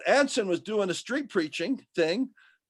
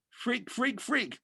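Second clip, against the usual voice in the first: soft, higher breathy chant of "Freak"; whispered waves; 4 semitones higher, 6 dB quieter, slower than usual. Pretend. Ocean waves whisper taunts at Anson, soft and high. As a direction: hush it like waves hissing.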